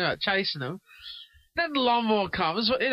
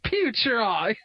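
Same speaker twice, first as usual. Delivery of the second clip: puzzled echo; 2 semitones higher, slower than usual. Real, not acted. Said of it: "What's that word mean".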